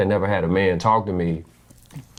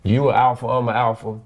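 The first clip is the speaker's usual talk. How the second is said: alpha bravado; 3 semitones higher than usual. Retold or imitated.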